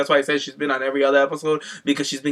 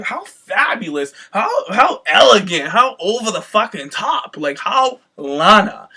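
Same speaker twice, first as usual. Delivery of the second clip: gushing; 5 semitones higher, 4 dB louder, slower than usual. Retold or imitated. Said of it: "I was like".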